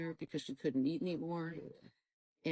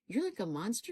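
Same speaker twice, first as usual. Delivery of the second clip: high-pitched retold reproach; raised, indignant voice; angry accusation; 6 semitones higher than usual. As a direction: hurl the charge at God, reliving the anger. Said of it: "I am so angry at you".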